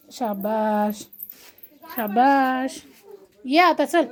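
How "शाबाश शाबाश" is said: low, drawn-out well done; soothing, lengthened approval; encouraging praise. Real, not acted. Praises child climbing down.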